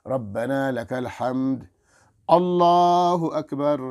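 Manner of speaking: slow, drawn-out takbir rising at the end; slow prayer call. Shown as a demonstration. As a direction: call the words calmly and long. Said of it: "آرام سے اٹھ کر". (آرام سے کھینچ کر تکبیر)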